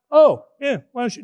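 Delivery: light, breezy suggestion; casual offer. Retold or imitated. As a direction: toss it off as a lazy invitation.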